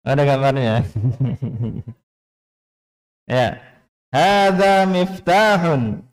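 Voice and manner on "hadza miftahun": "Hadza miftahun" high and very slow, long vowels held, falling at the end; model statement intonation. Shown as a demonstration. Teacher reads for the class to follow, drawn-out statement intonation. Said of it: "Perhatikan panjang pendeknya dan intonasinya".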